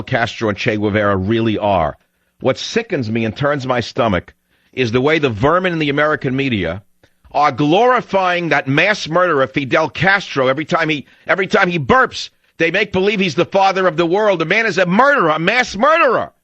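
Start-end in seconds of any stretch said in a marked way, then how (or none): 4.9-16.3 high, indignant tirade building to a peak; outraged rant. Real, not acted. Radio host condemning media praise of Castro, outraged. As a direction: let the outrage climb to a pitched outburst.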